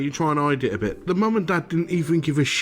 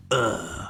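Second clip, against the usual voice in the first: a soft, short dying groan, barely voiced; quiet mock death groan; 5 semitones lower, 4 dB quieter than usual. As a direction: let out a limp, lifeless ugh as if giving up. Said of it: "he just goes".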